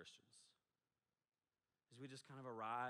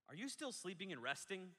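exclamation point reading; 6 semitones higher than usual. Shown as a demonstration. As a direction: push "still" up as a scolding question. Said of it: "which means he said".

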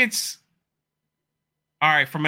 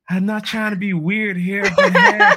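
mock excited plea; 6 semitones higher, 7 dB louder than usual. Retold awkward ask for interview.

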